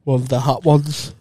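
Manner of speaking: yawning while talking; words stretched by a yawn. Real, not acted. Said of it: "I'm yawning like a fucker".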